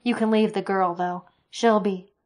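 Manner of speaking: angry threat. Acted. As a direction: threaten them, loudly. Soldier threatens the creatures.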